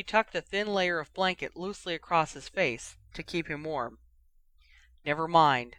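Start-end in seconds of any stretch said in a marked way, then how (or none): 5.0-5.8 abrupt, louder irritated cut-off. Acted. Ron brushing off Harry and Ginny, abrupt and irritated. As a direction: brush them off, truly annoyed. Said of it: "said Ron abruptly, sounding truly irritated".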